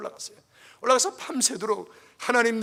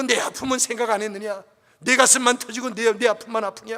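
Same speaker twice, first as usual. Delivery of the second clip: God's rebuke; 5 dB louder than usual. Retold or imitated. God rebuking the pastor.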